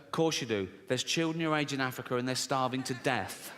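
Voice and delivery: low, softened mock reproof; retold scolding mum. Mum guilt-trips child over dinner, low mock-stern. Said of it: "my mum would go straight to".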